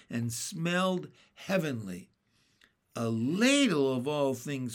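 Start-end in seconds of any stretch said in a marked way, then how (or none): 2.9-4.7 surprised cry. Acted. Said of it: "cried Henry".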